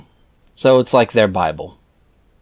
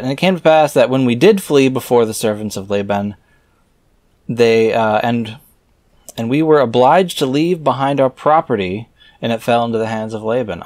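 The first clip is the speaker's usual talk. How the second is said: raised, measured reading voice; scripture reading. Acted. Reader reciting scripture verses aloud in a solemn reading voice. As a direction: read the old verses out with solemn weight.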